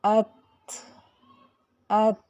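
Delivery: अत with a stop then a faint th breath; whispered release. Shown as a demonstration. Teacher showing the hams of ta. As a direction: close on त then release a light th. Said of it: "हल्की सी थ की sound आएगी".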